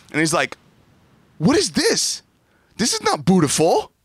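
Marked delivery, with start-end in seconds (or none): 1.4-3.9 put-on much higher, louder child voice, let down; little son unimpressed. Son Zion judges the Christmas lights, much higher and let down. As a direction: whine like a disappointed three-year-old.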